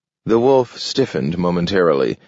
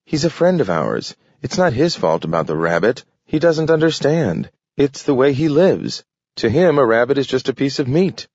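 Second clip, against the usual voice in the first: higher, earnest dog voice defending his friend; earnest young dog; 6 semitones higher than usual. A narrator's reading. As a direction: plead the wolf's case, voice lifted.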